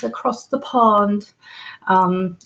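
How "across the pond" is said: drawn-out attempt at a British accent; slow it down and try sounding British. Shown as a demonstration. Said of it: "working on my British accent".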